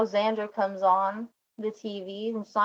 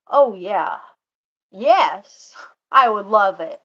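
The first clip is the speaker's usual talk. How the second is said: eager yes; 8 dB louder, slower than usual. Retold or imitated. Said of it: "Charlie goes".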